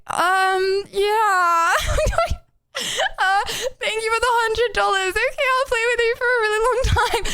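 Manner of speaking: high, forced-polite voice; mock pressured reply. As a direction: play the cornered, fake-cheerful friend. Mocks pressured streamer reply.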